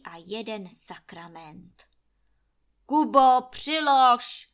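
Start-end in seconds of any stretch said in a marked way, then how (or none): 2.8-4.5 loud, high command; barked order. A narrator's reading. Landlord ordering Kuba to stoke the fire, loud. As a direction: bark it at Kuba. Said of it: "komanduje Trautenberg".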